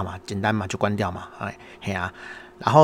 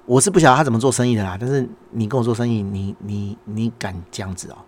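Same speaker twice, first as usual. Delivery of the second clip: indignant inner voice. Retold or imitated. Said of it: "我心里想说".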